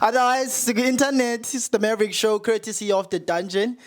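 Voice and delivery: bright, lifted radio host voice. Pretend. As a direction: announce it like a radio DJ. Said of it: "I'm putting on my radio voice here".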